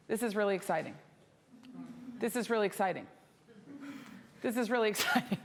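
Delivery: "This is really exciting" repeated with the same falling tune; identical mock repetition. Shown as a demonstration. Teacher asking if you talk like this, mock identical repetition. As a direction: repeat it unvaried, like a stuck record. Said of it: "do you talk like this?".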